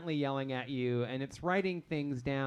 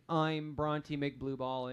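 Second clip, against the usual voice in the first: slow, lower Southern drawl; made-up Southern accent; 3 semitones lower, 4 dB quieter, much slower than usual. Acted. Game master recalling the NPC's line in a slow Southern drawl. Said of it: "in his very weird accent that I just made up".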